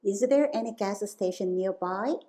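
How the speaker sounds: very slow with a rising end; slow model question. Shown as a demonstration. Teacher repeats the gas station answer slowly, rising. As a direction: drag each word out for learners. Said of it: "두 번째 정답이었죠".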